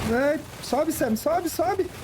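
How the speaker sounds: high urgent urging; while running. Real, not acted. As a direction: push him on, breathless and urgent. Urging character to climb, chased.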